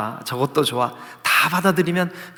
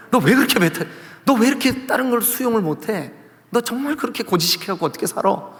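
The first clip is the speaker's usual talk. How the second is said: higher-pitched, lightly acted telling-off; mock scolding; 5 semitones higher than usual. Preacher pretending to tell off the number two, mock scolding. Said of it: "이를 막 호통을 쳤다고".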